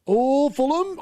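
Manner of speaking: high, rising call of anticipation; excited reaction. Real, not acted. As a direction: react live as a chance suddenly opens up. Reacting to a sudden Fulham chance.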